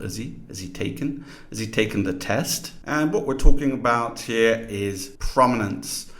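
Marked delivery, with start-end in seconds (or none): 0.0-2.7 has he as "is he", both h sounds dropped; reduced, h-less "is he" opening the question; elided initial h. Shown as a demonstration. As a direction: link "is he" into one weak unit, no h. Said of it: "even elide the initial h sound".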